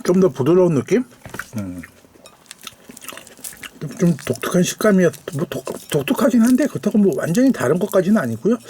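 talking around hot food; words through a hot bite; mouth full of hot food. Real, not acted. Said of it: "아, 뜨거워".

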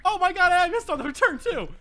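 loud, high, laughing yell; laughing in despair. Real, not acted. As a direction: laugh and scream at the miss. Missing the shot again.

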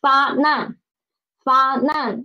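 fa nan, with the n starting the second syllable; clear, careful fa nan for students to copy; model reading for repetition. Shown as a demonstration. Teacher reads fa nan for the class to repeat. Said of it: "read after me".

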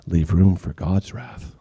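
low, slow ominous read; ominous scripture. Pretend. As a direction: let the warning hang.

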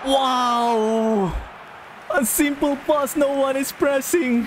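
high-pitched, incredulous wail; exasperated outburst. Real, not acted. Gamer complains the game won't let them win, exasperated. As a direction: protest high, in utter disbelief.

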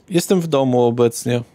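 ordinary talk

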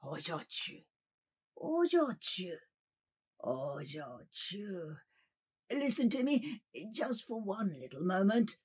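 soft calling, drawn-out pleas; pleading. Acted. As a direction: gently beg her to look up.

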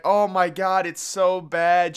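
mock TV-host wailing, high and loud. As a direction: ham up a host's fake outrage, drawn out slowly. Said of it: "And she's like".

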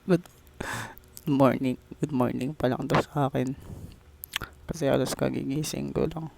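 groggy, just-woke-up hungover voice. Real, not acted. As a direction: talk like your head is pounding. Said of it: "Tangina, sakit ng ulo ko".

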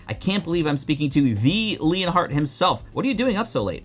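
high, excited starstruck voice; you can't believe it's really him; starstruck fan. Pretend.

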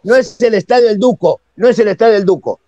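"Duco" stressed on the first syllable, DU-co; wrong stress DUco. Shown as a demonstration. Correcting the host on the stadium's name, "Duco" stressed as DU-co. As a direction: say "Duco" with the weight on DU, unaccented O. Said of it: "así se llama".

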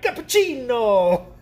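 high, drawn-out excited exclamation; excited Salt Bae. Retold or imitated. Retelling a TikTok to viewers, imitated excited cry. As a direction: savor every syllable like an overexcited showman. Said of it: "he gets excited. He's like".

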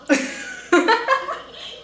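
airy high giggle; high breathy laugh. Real, not acted. Reacting to the idols' kissing clip, an airy high giggle.

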